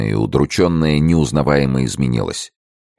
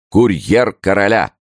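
raised, higher-pitched call; announcing cry; 7 semitones higher, 4 dB louder than usual. A narrator's reading. Master of ceremonies announcing the king's courier, crying out. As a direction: call it out like a herald. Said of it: "крикнул церемонимейстер".

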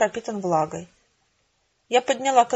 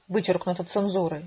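lower, even monotone aside; censor's insert; 3 semitones lower, 3 dB quieter than usual. Acted. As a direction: drop into an impersonal redaction notice. Censor's cut inserted in letter. (монотонная пометка цензора)

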